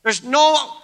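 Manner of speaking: a wronged prophet crying out his grievance; Elijah's complaint. Acted. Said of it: "here's what Elijah's thinking is".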